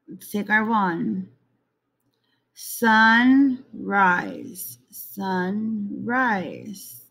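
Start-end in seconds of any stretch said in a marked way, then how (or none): 2.6-7.0 sunrise split as sun, rise; syllable by syllable. Shown as a demonstration. Teacher tapping out a word's syllables for kids. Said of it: "two syllables in the word sunrise".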